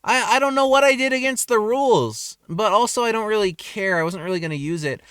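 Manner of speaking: indignant protest. Retold or imitated. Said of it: "I was like".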